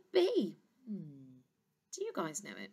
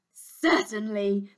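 smiling; 4 dB louder, slower than usual. Acted. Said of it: "smiled the dragon".

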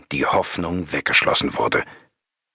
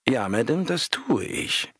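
polite; 7 semitones higher than usual. A narrator's reading. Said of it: "antwortete er höflich".

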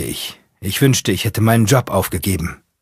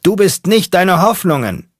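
very high, loud yell over the horns; screaming; 11 semitones higher, 4 dB louder than usual. Acted. Mechanic craning into oncoming headlights, screaming. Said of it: "und schreit".

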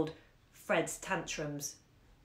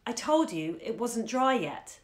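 with asperity; 3 semitones higher than usual. Acted. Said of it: "with some asperity".

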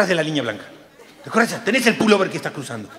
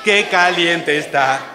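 loud mock yell of pain, pitched up at the start; playful shout; 8 dB louder, much slower than usual. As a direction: holler it like a burnt seat. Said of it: "empezó a gritar". (grito fuerte de juego)

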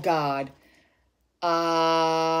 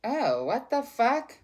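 slow, drawn-out startled curse; stunned oh what the fuck; shocked; 5 semitones higher, slower than usual. Real, not acted. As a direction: caught off guard by the card. Sudden reaction to a card.

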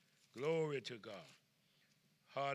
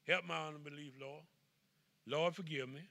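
quiet plea. Shown as a demonstration. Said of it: "just say".

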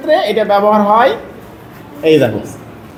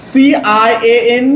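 letters drawn out very slowly; slow spelling out; much slower than usual. Shown as a demonstration. Teacher slowly spells the ending for the pupil. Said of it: "কিন্তু".

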